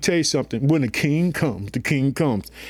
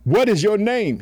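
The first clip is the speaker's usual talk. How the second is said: raised, stern question; Jesus demanding; 6 semitones higher than usual. Acted. Jesus questioning the demon, raised and stern. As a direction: demand the name up high. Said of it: "And Jesus asked him".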